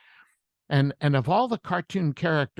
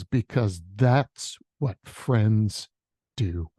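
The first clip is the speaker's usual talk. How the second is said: slow, weighted, dropping low at the end; Donkey's sincere answer; 3 semitones lower, slower than usual. Acted. Donkey answering Shrek about friendship, slow and sincere. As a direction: land each word gently. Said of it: "And donkey says this".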